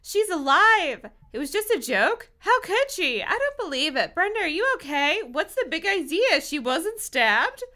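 high-pitched crowd exclamations; high, mildly hammed-up astonishment; startled cries. A narrator's reading. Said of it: "startled screams and cries".

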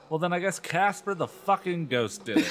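lightly voiced sarcastic dad; dad mocking a lie, laughing; a hint of sarcastic father; dad's sarcastic line. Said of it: "one of my dad's lines".

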